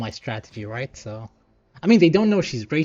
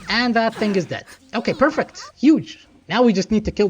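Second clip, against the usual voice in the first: rising excitement, higher pitch; thrilled the kills landed; excited; 7 semitones higher than usual. Real, not acted.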